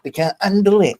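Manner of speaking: emphatic outburst. Real, not acted. Ranting at doubters who deny truth.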